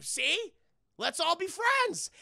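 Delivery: high, loud, slow beaming; cheery peacemaker. Retold or imitated. Johnny uniting the fighters, high slow cheer. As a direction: sell the friendship. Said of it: "And he's like".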